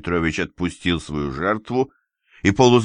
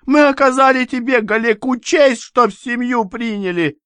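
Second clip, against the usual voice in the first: shrill indignant shout; 4 dB louder than usual. Acted. Mother keeps shouting indignantly.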